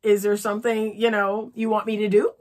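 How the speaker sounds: light, gentle open question; gentle inviting question; the sweet way. Shown as a demonstration. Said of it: "Just say".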